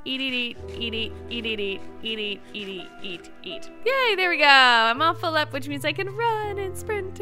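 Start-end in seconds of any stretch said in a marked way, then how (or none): none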